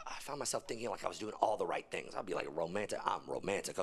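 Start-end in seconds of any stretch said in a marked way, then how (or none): 2.1-3.8 low, soft lover voice; mock suave romantic. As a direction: play the smooth romantic. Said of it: "boasting in low voice".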